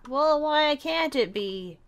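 high, slow pouty complaint; pouty whine. Acted. Nosy girl sulks at the refusal, slow whine. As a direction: drag it out like a sulking kid. Pestering follow-up question.

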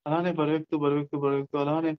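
steady, repetitive hypnotic suggestion; guided meditation. Acted. Tell listeners the body grows heavier, guided meditation. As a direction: lull them with evenly repeated phrases.

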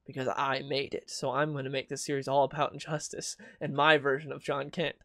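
mock the author praising his own idea; mock smug author. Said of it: "so he's like".

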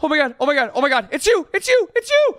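high, loud squeals of delight; amazed excitement. Real, not acted. Player sees friend's mini-me appear, thrilled squealing.

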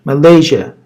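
Malaysia with the stress on "lay"; stress on the L syllable. Shown as a demonstration. Teacher showing the class where the stress falls in Malaysia. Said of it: "Vurgu L'dedir".

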